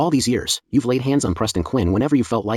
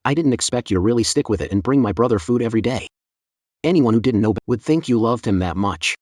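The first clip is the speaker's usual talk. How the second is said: sarcastic. Acted. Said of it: "Cut the sarcasm".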